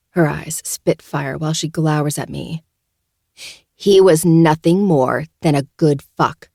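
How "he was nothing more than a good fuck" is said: slow, loud and seething. Acted. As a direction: spit it out with slow fury. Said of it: "she seethes".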